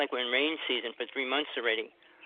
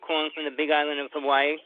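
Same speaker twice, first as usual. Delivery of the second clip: radio voice; 3 dB louder than usual. Real, not acted. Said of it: "Put on your radio voice".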